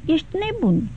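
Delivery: angry cry. Acted. Kitty to Levin, indignantly calling him mad. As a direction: snap back at him, flushed with vexation, lightly voiced. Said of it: "strigă Kitty, împujorându-se de necaz".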